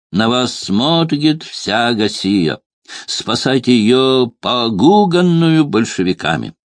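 r said as a guttural French-style burr; gentry baritone swallowing every r. A narrator's reading. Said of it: "баритон дворянский картавый".

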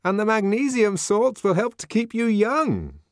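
high, loud nervous coaxing; nervous offer. A narrator's reading. Man offering almonds to the savage, nervous smiling coaxing. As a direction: placate him with a smile. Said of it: "with a rather nervous smile of propitiation".

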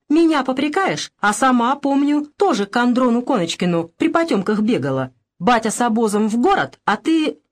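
громче и выше, обвиняя; бросить упрёк матери в лицо; с упрёком. Acted. Анна обвиняет мать в ссоре. (Анна припоминает матери прошлое, с упрёком)

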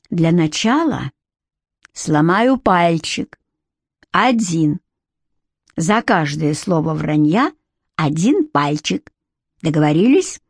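медленно, с ленивой угрозой; спокойный голос злодея; злой похититель. A narrator's reading. (негромкая зловещая угроза, нарочито медленно)

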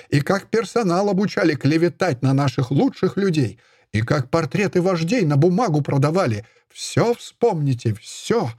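high-pitched accusing rant, slowed hammering on всё; furious tirade. Acted. Ayupova berates the narrator before the editor, furious high tirade.

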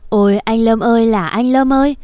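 keen the name "Lâm" at the coffin; aunt wailing at the coffin; wailing lament. Acted. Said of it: "là khóc".

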